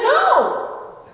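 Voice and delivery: loud, high, drawn-out no; emphatic no. Retold or imitated. Preacher answering Sam's question, loud slow emphatic no. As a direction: slam the answer down.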